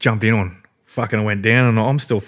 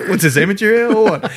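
higher, louder scoffing jibe; mock scoffing; 10 semitones higher, 4 dB louder than usual. Onlookers sneering at the newcomers, mock scoff.

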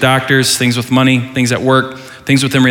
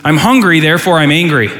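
mock hangry complaint; 2 semitones higher than usual. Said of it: "If you don't know what hangry means".

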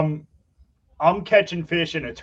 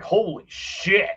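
drawn-out, higher mock awe; retold amazement; 4 semitones higher, much slower than usual. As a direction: imitate stunned guys, stretching the words. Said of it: "the guys are freaking out".

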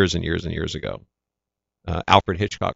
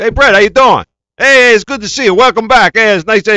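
much higher and louder, boisterous welcome; cheerful greeting; 13 semitones higher, 12 dB louder than usual. Retold or imitated. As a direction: greet him like old friends on set. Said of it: "and all the drivers".

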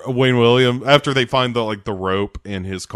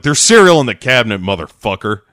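mock snapping wife; 6 dB louder, faster than usual. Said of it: "she's like".

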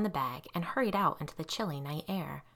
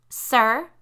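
a sharp, louder, higher call edged with panic; note of panic; 5 semitones higher, 8 dB louder than usual. Acted. Girl calling to a silent driver, starting to panic. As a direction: call out as fear creeps in. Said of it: "a note of panic in her voice".

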